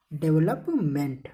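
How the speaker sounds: "डेवलपमेंट" slowly, in two parts; pronunciation demonstration. Shown as a demonstration. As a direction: say "डेवलपमेंट" slowly as develop-ment. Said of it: "क्या हो जाएगा". ("डेवलपमेंट" को धीरे, डेवलप-मेंट करके बोलें)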